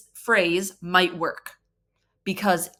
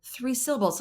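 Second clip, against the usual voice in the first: mock surprise; 5 semitones higher, 4 dB quieter than usual. Shown as a demonstration. Mock discovery with child.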